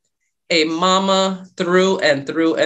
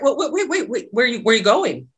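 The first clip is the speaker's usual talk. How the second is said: higher, laughing through the words; a light chuckle as you quote him; laughing imitation of him; 5 semitones higher than usual. Quoting her date as he calls her back, laughing. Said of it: "then he's like".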